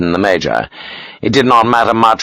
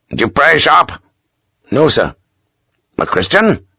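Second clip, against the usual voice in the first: higher, clipped questioning officer; stern pious Major; 5 semitones higher than usual. Acted. Major quizzing Sharp on his faith, stern and higher. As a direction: probe his faith like an inspector.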